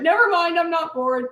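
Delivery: put-on a girl backing down at a look; quick retreat. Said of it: "and she went".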